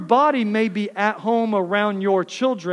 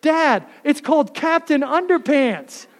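higher with a laugh, mock childlike; kids voice, laughing; 6 semitones higher, 4 dB louder than usual. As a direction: tell it like giggling kids. Kids naming the movie, laughing.

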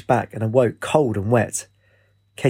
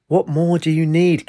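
slow, pressing exclamation, pitched up; exclaiming; 6 semitones higher than usual. A narrator's reading. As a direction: demand it, each word drawn out. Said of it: "Katie exclaimed".

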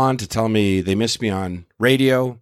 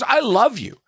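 higher, gushing fan voice; a hammed-up gushing woman; mock gushing fan; 10 semitones higher than usual. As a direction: imitate the gushing heckler, pitched up. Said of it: "She goes".

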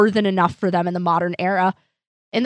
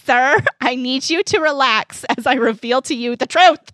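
higher, polite help-desk voice; customer service voice; 4 semitones higher than usual. Pretend. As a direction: soothe the caller like a clerk. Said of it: "customer service voice".

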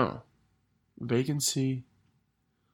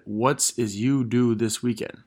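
slow, word-by-word reading of the typo; sounding out the garbled message; misspelled text read literally; slower than usual. Shown as a demonstration. Reading a friend's typo aloud, slow and literal. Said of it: "I'm assuming you mean".

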